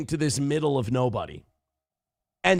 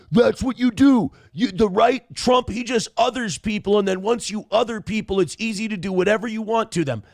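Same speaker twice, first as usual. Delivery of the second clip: higher, lightly voiced preachy leftist; mocking lefties; 5 semitones higher than usual. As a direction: parody a self-righteous activist. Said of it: "all these lefties like to go".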